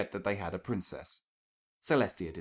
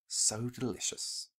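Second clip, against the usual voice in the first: savouring; 3 semitones higher, 6 dB quieter, slower than usual. Acted. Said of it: "suppress a moan".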